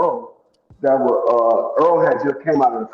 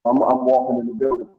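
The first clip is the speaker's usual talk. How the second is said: faint, choppy phone audio; barely audible. Real, not acted. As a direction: voice cutting out. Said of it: "no, not really".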